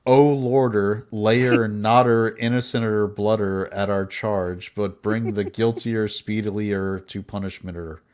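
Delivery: slow, exaggerated Boston drawl; Boston accent. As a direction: ham up a Boston accent with added er. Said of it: "Now that's Boston".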